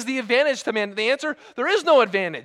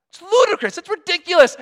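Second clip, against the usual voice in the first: much higher and louder, exclaiming; incredulous outburst; 9 semitones higher, 7 dB louder than usual. Real, not acted. Preacher scoffing at a pot that argues, incredulous. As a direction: throw up your hands at the absurdity.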